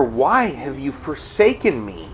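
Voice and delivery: understated cry of despair; deep despair. Acted. Preacher voicing David's psalm, mild despair. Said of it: "He's expressing this deep despair".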